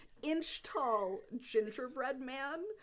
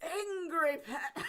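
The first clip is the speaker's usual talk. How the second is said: put-on slow, high, loud drunken dwarf; drunk dwarf shout; 8 semitones higher, 4 dB louder, slower than usual. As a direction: slur a gleeful drunken shout. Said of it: "very drunk dwarven voice ... shouting".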